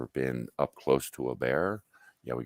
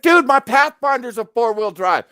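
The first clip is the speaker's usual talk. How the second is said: loud, very high yell; hammed-up, high-pitched outrage; mock panicked protest; 12 dB louder than usual. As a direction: imitate a freaked-out passenger, shouting high. Passenger's retold panicked protest.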